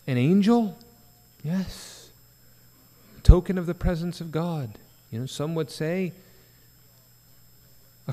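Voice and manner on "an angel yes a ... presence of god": emphatic rhetorical question. Real, not acted. Rhetorical question, loud answer.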